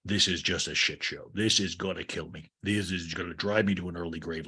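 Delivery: lightly voiced low, weary grumble; Greg. Mean owner rants to Lisa about the Toms, low mock grumble.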